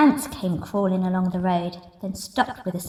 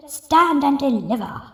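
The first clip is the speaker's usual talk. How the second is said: thundering demand; 4 semitones higher, 3 dB louder than usual. Acted. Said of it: "who thundered".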